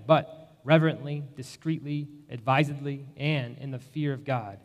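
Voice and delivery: formal liturgy. Acted. Officiant reads formal wedding liturgy.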